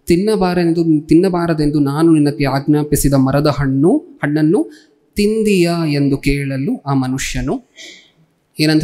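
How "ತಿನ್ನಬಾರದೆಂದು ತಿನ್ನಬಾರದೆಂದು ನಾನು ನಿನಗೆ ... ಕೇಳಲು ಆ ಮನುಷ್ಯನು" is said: slow, measured reading aloud; scripture reading. A narrator's reading. Preacher reads the verse to the congregation, slow scripture reading. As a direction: read the verse out slowly, with pauses.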